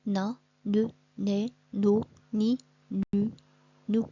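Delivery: teacher sounding out syllables; syllable drill. Shown as a demonstration. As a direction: sound out each syllable for pupils. Reading syllables together.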